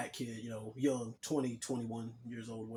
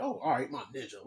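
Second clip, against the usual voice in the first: imitating a condescending put-down. Older janitor echoes the teenager's greeting to insult him, condescending. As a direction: mockingly echo it, with a rising swoop. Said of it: "she said it in a condescending way".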